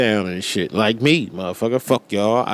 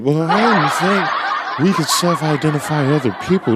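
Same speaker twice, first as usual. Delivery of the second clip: mock critic voice; 3 semitones higher than usual. Imagined critic replies.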